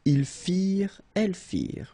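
"Ils firent, elles firent" ending on r; silent ENT ending. Shown as a demonstration. Teacher modelling plural forms, silent ENT. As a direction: say "firent" as fir after each pronoun. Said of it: "you don't pronounce it".

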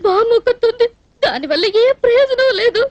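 crying through a complaint; tearful. Acted. Motherless girl lamenting her marriage prospects, tearful. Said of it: "ఎందుకు ఏడుస్తున్నట్టు".

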